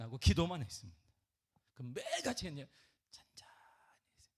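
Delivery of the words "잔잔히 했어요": breathy near-silent whisper on 잔잔히; whispered demonstration of quiet prayer. Shown as a demonstration. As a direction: drop to a hush to show calm prayer.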